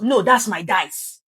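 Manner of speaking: half-shouted mock objection; mock shouting. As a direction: playfully act out a loud squabble over the game. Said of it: "There's a lot of shouting".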